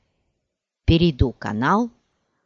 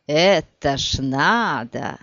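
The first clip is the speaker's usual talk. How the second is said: smirking; 2 semitones lower, much slower than usual. Acted. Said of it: "усмехнулся шепелявый".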